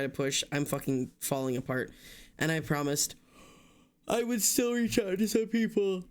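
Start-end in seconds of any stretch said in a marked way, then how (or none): 4.1-6.0 high, stretched words mid-yawn; real yawn swallowing the words; talking through a yawn. Real, not acted. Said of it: "I keep yawning".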